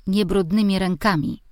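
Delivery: mother scolds a dirty-handed daughter, mild shout; mother's shout. Acted. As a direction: call out a scolding, half-hearted. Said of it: "krzyknęła mama".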